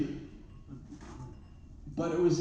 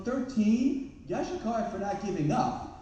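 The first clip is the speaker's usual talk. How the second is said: amused surprise; 6 semitones higher than usual. Retold or imitated. Astonished reply to couple.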